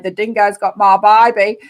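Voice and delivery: lightly mimicked Cockney movie line; mock Cockney film quote; imitated Cockney accent. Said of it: "she was doing Cockney accents".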